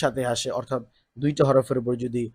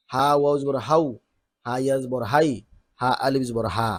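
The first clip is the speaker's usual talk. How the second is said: drill recitation. Shown as a demonstration. Teacher recites letter drill.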